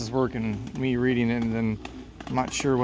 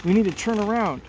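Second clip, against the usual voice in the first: put-on girl shouting to her father over the wind; 6 semitones higher than usual. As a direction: shout to dad across the boat. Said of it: "Mel shouting".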